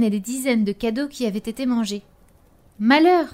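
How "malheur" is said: sharp alarmed cry; exclaiming. Acted. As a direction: cry out in dismay. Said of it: "s'exclama-t-il".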